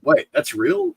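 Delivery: very high-pitched disbelief; incredulous rising question; astonished. Retold or imitated. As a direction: squeak it in retold amazement. Re-enacts astonished discovery.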